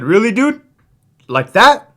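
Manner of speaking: retold incredulous challenge. Officer calling out a mouthy inmate, mock incredulous. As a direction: re-enact calling someone out in disbelief.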